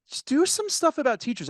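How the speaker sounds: high-pitched imitation of a pushy heckler; mock-impatient audience request; frustrated heckler. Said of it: "just starts getting frustrated".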